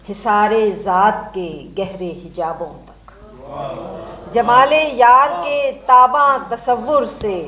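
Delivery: measured, declaimed Urdu verse, each phrase set apart; stately verse delivery with falling line endings; poem recitation. Acted. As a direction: recite a nazm to a mushaira audience, lifting repeated lines. Recites her own nazm.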